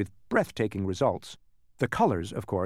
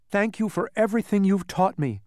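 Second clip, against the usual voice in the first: put-on higher-pitched earnest boy's voice; grateful boy; 8 semitones higher than usual. A narrator's reading. Boy thanks everybody at parting, grateful.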